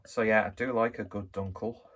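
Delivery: breathless from climbing stairs; a bit winded, catching breath. Real, not acted. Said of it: "I am out of breath 'cause I, uh, I walked up the stairs".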